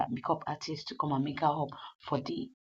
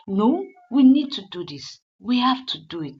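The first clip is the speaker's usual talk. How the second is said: retold insistence; 7 semitones higher, 10 dB louder than usual. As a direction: dig in and refuse to back down. Wife insists firmly.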